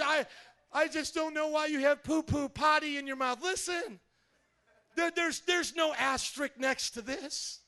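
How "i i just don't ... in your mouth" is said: mock scold. Mock Jesus scolding, shouted.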